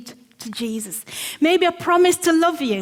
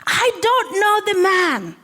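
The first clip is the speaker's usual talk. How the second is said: cursing denial; 7 semitones higher than usual. Acted. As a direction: swear it off with force. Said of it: "began to call down curses".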